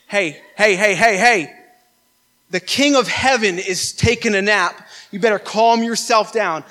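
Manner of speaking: firm, measured telling-off of a storm; mock rebuke. Bold disciple to the wind and waves, acted rebuke. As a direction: call it to attention, then order it to settle.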